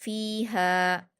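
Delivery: फ़ीहा with both vowels held; stretched madd. Shown as a demonstration. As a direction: draw out फ़ी and हा evenly in फ़ीहा. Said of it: "दो हरकत खींचेंगे".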